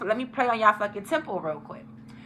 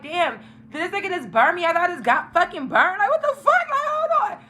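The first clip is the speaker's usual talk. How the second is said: retold panic; 8 semitones higher than usual. Retold panic at possible infection.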